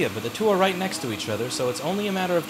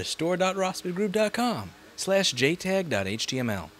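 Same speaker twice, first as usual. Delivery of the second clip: slow and clear; 2 semitones higher, slower than usual. Shown as a demonstration. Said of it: "spelling out a URL".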